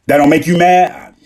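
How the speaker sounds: mock astonished challenge; incredulous question. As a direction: fire it back in disbelief. Other person asks incredulously.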